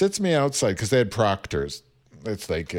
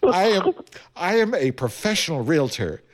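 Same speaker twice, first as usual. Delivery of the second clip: lightly mocked officious mother; indignant email tone; 2 semitones higher than usual. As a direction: read it with imitated self-importance. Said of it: "can't believe the tone of this".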